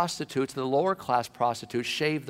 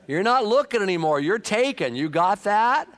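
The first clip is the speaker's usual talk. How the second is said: firm husband; 7 semitones higher, 5 dB louder than usual. Acted. Husband lays down the law.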